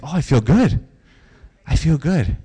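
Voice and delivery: mildly put-on upbeat reply; retold recovered man. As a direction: imitate someone pleased to feel well. Quoting the man who recovered.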